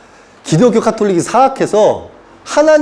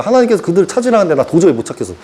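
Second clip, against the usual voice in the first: ordinary talk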